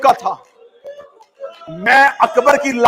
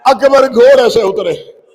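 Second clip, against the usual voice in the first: slow grieving declamation, breaking into shouts; mourner's chanting lament; lamenting recitation; slower than usual. Acted. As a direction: wail the father's farewell to the crowd. Mourning recitation of Akbar's death.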